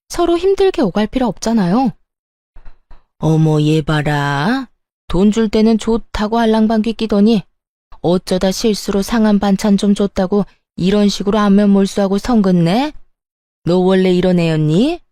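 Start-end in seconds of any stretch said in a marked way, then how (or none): 3.2-15.0 lightly voiced scolding mother-in-law; indignant mother-in-law. Mother-in-law berating her daughter-in-law over money, mildly indignant.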